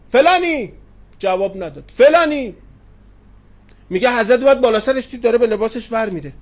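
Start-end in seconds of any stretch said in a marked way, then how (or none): 0.1-0.7 raised call across the yard; calling out a name. Retold or imitated. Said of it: "صداش کرد". 2.0-2.5 raised call across the yard; calling out a name. Retold or imitated. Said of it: "صداش کرد".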